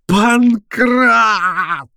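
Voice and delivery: high, drawn-out frantic yell; hysterical shout. A narrator's reading. Professor calling servant against reporter, hysterical. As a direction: scream the name hysterically. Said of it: "истерически закричал Персиков".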